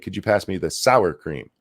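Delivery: sour hit hard in sour cream; stress on sour. Shown as a demonstration. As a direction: lean on the word sour. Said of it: "Put the emphasis on the sour".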